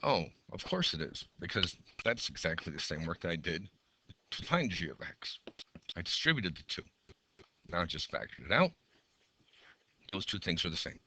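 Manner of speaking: hoarse, fading teacher voice; strained, hoarse voice; losing voice. Real, not acted. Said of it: "Sorry about losing my voice".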